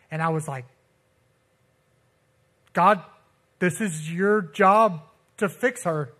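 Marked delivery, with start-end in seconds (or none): 2.7-6.1 slow, deliberate plea; retold pleading. Son pleading with God for his dying mother, insistent. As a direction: press each word as a mild demand. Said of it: "I was pleading with God out loud".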